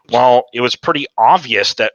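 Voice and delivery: mildly snide, patronizing imitation; mock a condescending teammate. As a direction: imitate someone talking down to you. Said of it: "his little condescending bitch voice".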